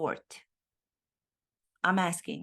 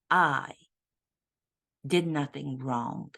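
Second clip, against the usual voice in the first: lower, self-pitying mock royal voice; a lightly voiced, lower royal blaming everyone else; sulky mock prince answering in court, lower; mock Prince Harry; 3 semitones lower than usual. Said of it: "Why have you taken the press to court, Prince Harry?".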